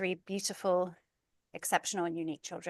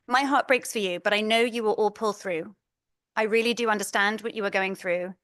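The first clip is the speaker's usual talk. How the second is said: reading a supportive text aloud, a bit louder; reading a kind message; 5 dB louder than usual. Retold or imitated. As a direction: read a friend's message with heartfelt care. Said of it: "I'm gonna begin with reading a couple messages".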